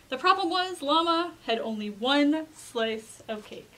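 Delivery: put-on measured read-aloud to children; storybook narration. A narrator's reading. Reader tells children of Llama's invitation, storybook narration. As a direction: tell it like a picture book, pointing the key words. Reads a picture book aloud.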